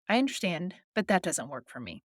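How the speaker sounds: acknowledge, then decline without emotion; emotionless. Shown as a demonstration. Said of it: "short, concise, emotionless phrase".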